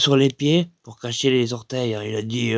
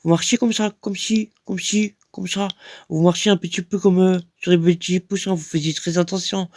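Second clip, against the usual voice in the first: raised-pitch mocking pal voice; lightly voiced cheeky pal, teasing; mocking buddy; 6 semitones higher than usual. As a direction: tease him like a cheeky mate. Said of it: "un pote, il fait".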